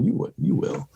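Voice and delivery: high-pitched mock retort; imitated film heroine. Podcaster quoting her great line to Thanos, high imitated retort. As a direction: imitate her little comeback, pitched right up. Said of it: "she kinda gives him the little".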